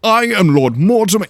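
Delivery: high, loud pompous declaration; indignant proclamation. Acted. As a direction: pull rank loudly. Lord pulling rank indignantly.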